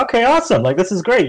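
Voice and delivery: high-pitched, hopeful "awesome" as you relive it; retold excitement. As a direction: act out your earlier excitement. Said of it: "like, really excited".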